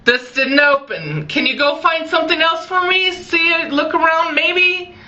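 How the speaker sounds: put-on gently pleading with a little kid; lightly voiced call through the door; coaxing a child. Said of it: "I'm like".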